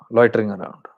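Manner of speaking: whispered aside; hushed, eerie whisper. Shown as a demonstration. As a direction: drop to a whisper for the ghost. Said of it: "whispered aside".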